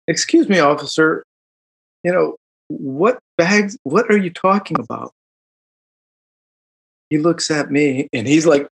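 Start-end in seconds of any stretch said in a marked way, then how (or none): 0.1-5.1 posh academic voice. Retold or imitated. To the cop, he answers in his best academic voice. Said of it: "my best Northwestern academic voice".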